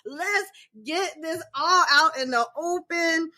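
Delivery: high, laughing mom pep talk; laughing through it. Retold or imitated. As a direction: laugh while pushing him to open up. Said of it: "I'm like".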